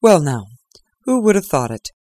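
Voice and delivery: inward merriment. Acted. Holmes mock surprised, lightly amused. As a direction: play at surprise, half laughing. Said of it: "writhing with inward merriment".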